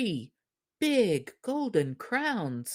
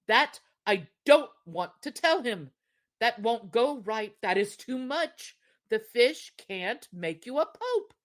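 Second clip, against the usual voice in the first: anxious husband; 4 semitones higher than usual. Acted.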